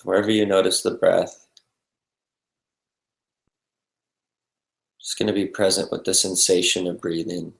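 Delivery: calm, unhurried meditation guidance with long pauses; guided meditation. Real, not acted. Meditation teacher settling the group into breath and body, calm and spacious. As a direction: lead them gently into stillness, leaving space between phrases.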